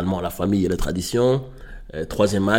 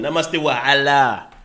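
put-on slow Arabic-accented French; 4 semitones higher, 3 dB louder, slower than usual. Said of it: "je le dis avec un accent arabe".

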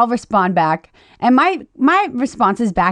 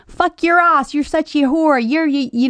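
higher-pitched mock Irish or Scottish brogue; thick Irish or Scottish accent; 5 semitones higher than usual. Retelling a stranger's typed insult to the host, mock Irish-Scottish accent. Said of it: "a thick Irish or Scottish accent".

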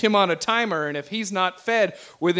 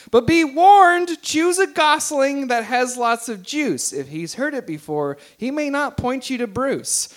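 poem reading. Acted. Reads the attached poem aloud.

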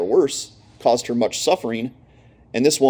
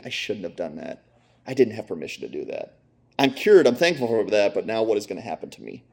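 terrified woman; 3 semitones lower than usual. Retold or imitated. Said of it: "in terror".

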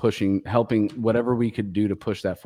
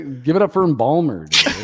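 loud, sure stage shout-out; confident announcement; 4 semitones higher, 5 dB louder than usual. Real, not acted. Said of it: "like, all confidently".

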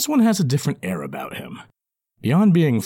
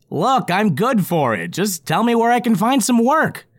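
high loud goblin, pleading; earnest goblin; 12 semitones higher, 4 dB louder than usual. Acted. Goblin character voice.

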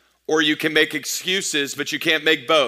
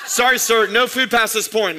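TSA agent voice; 5 semitones higher than usual. Retold or imitated. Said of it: "the T S A says".

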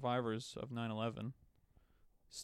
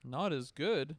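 teasing, louder jab at "good"; mock emphasis; 3 semitones higher, 5 dB louder, slower than usual. Friend teasing about the hockey player, mock emphatic. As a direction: needle your friend with a loud mock "Not as good". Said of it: "No, I'm just kidding".

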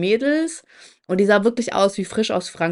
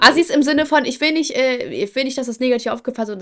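hasty clarification; 5 semitones higher than usual. Real, not acted. Hastily qualifying a risky word.

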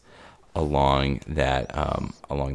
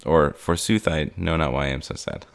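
grand Shakespearean soliloquy, pitched up; hammy stage actor; 3 dB louder than usual. Pretend. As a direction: declaim it like an old-school stage actor. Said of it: "I feel like soliloquying".

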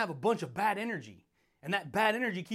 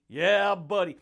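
hyped shout; 6 dB louder, slower than usual. Acted. Shouted catchphrase to viewers.

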